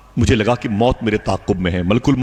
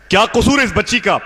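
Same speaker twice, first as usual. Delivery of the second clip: high anguished plea; wife pleading; 10 semitones higher than usual. Retold or imitated. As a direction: beg for the child. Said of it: "بولے". (بیوی کی تڑپتی ہوئی فریاد)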